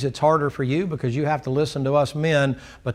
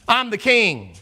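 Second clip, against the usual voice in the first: higher, puffed-up royal claim; haughty king; 6 semitones higher, slower than usual. Acted. Uzziah tells the priests he is king, haughty. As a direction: throw your rank at them. Acted king asserting rank.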